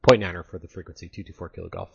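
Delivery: radio-filtered pilot voice; crackly military radio. Real, not acted. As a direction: talk through a crackly radio. Pilot reply over the radio.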